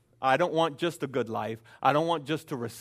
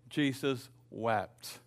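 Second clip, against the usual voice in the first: slow solemn reading; 3 semitones lower, 5 dB quieter, much slower than usual. Acted. Key verse read slowly.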